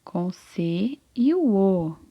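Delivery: slow spelling. Shown as a demonstration. Teacher spells the syllable.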